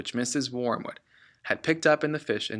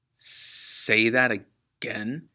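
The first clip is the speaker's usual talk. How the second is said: slow, hushed disbelief; father stunned by her answer; much slower than usual. Acted. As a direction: let it sink in slowly.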